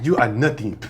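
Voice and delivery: mock blunt friend. Imitating friend's blunt retort.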